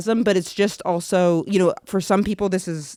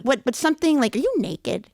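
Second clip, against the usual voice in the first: higher, suspicious mom; mom's voice; 5 semitones higher than usual. Retold or imitated. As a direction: mom asking in alarm. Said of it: "She's like".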